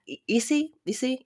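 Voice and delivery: pitched high, asking if they follow; half laughing at her own muddle, high and pleading; a flustered, high you see; exasperated high question. Real, not acted.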